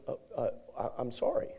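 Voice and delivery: soft, small mumbled apology; sheepish apology. Retold or imitated. Student apologizing meekly to the yelling professor. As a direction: shrink back and mumble sorry.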